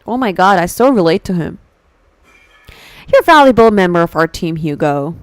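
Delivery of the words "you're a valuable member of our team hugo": loud mock-quote of a boss; mock corporate praise. Hugo quoting the agency that bamboozled him, mocking praise. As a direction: parrot the company line, falling away on the name.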